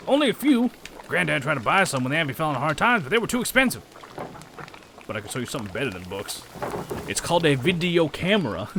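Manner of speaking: lightly put-on rustic accent; accented townsperson. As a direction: gossip about granddad in an accented character voice.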